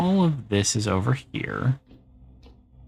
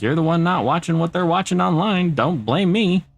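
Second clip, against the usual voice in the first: high, exasperated comeback; playacted protest in a high voice; mock indignant retort; 9 semitones higher, 3 dB louder than usual. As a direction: fire back defensively, pitched well up. Retorting to complaining parents.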